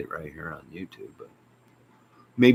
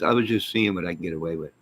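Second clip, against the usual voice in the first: rattled off fast; wife's excuse, said fast; quick quote; faster than usual. Retold or imitated. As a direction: toss it off quickly. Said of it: "Then she says".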